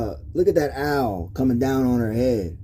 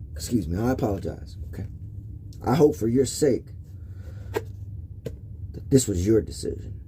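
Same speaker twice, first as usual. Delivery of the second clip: emotional; 3 semitones lower, 7 dB quieter than usual. Real, not acted. Telling viewers about the child that wasn't his, softly emotional. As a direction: voice sinks low and soft as the hurt comes back. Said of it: "apologize. Uh, forgive me".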